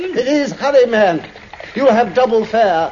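high, loud urging; urgent shout. Acted. Doctor loudly urging the cabbie to hurry. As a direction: push him to hurry.

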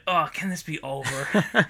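acted boredom, dragging the words. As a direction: sigh it out, fed up with waiting. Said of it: "the guy's just sitting there bored".

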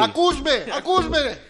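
high, loud laughing mockery; high mock shout with laughter. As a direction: tease her through laughter. Mocking co-host's reading.

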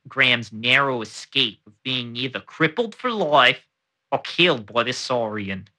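measured formal read of a period newspaper report; reading an old account. Acted. Podcast host reads an old crocodile report aloud, formal read. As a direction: read it like an old colonial news item.

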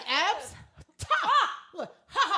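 high scoffing mock laugh; a hammed-up snooty cackle; mock haughty laugh. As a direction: laugh it off like a snob. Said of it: "She's like".

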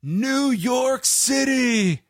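high, drawn-out mock crowd-greeting yell; retold yell. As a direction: stretch it out like calling to an arena. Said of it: "He yells".

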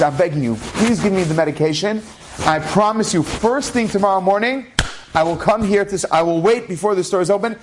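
tearful begging. Retold or imitated. Husband begs pharmacist for his wife's medication, mock-tearful pleading. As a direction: beg earnestly, without actual sobs. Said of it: "He just bursts out crying".

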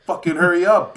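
hammed-up rude order; mock rude demand. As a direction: play the impatient customer barking orders. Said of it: "like, I always say, like".

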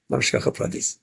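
breathy whispered repeat of Shkacha Pratis; hushed whispered echo. Shown as a demonstration. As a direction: whisper it to yourself in awe. Repeats the phrase, now whispered.

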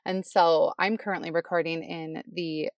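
muffled closet recording; recorded in a small closet; inside a closet. Real, not acted. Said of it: "now you're in the closet".

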